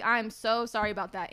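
put-on apologetic coworker; apologetic re-enactment. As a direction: lightly overplay being sorry to a customer. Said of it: "to give you the sound of what it was like".

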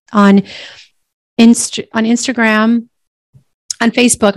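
talking while chewing gum; words round a piece of gum. Real, not acted. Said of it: "I can't talk and chew gum at the same time".

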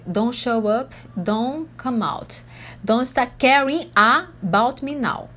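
slow, stretched-out song phrasing; song lyric recited. Retold or imitated. Teacher quoting a pop song to students, slow measured recital. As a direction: space out the lyric word by word. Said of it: "Tem até aquela música bem famosa".

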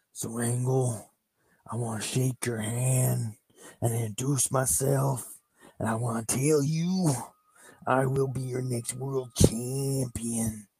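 a light hint of Macho Man, with a whispered aside; lightly voiced wrestler promo. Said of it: "Macho Man goes".

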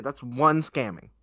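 slow, with the weight on "one"; emphatic restatement. Real, not acted. Teller making the count clear, firm stress on "one". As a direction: spell it out slowly, stressing "one". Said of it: "I just wanna make that clear".

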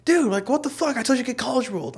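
very high, whiny mock complaint; retold outrage. Brother blames him for wrong notebooks, retold outrage. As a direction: imitate an aggrieved brother in a squeaky voice.

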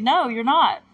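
playacted argumentative retort; retold arguing. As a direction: shoot it down, lightly acted. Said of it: "like, arguing".

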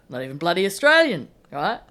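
loud mock-indignant knockabout politician; hammed-up talkback outrage, easing at the end; Peter Dutton. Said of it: "Your impression of Peter Dutton".

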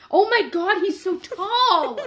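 high, loud, laughing delight; excited squeal. Real, not acted. Excited about tall cat.

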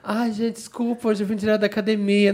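high airy apologetic friend voice; imitating friend. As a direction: play the breezy late friend. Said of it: "ela chega aqui assim".

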